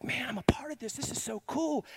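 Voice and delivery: a hushed half whisper of awe; awed whisper. Retold or imitated. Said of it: "I was like".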